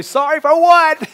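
high, loud "Sorry for what?" in disbelief; a high, bewildered question; incredulous. Retold or imitated. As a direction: act baffled that she apologises. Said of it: "I want to say".

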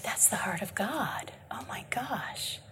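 soft moved whisper; awed whisper. Real, not acted. Preacher moved by God's heart, real awed whisper. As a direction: breathe it out in wonder. Awed aside after reading.

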